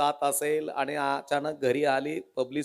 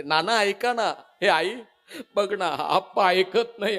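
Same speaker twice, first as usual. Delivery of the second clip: pleading daughter; 4 semitones higher than usual. Retold or imitated. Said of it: "इकडून हाक मारते".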